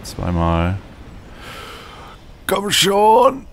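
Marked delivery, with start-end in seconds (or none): 2.5-3.5 high, loud cry of urging; shout. Real, not acted. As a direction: yell it out in the heat of the fight. Boss fight, near the end.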